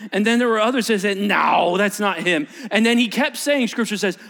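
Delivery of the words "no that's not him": loud flat denial; neighbor denying. Acted. Neighbor shouting back that it's not him.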